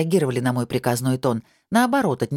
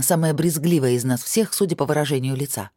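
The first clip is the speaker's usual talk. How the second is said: ordinary delivery, nothing marked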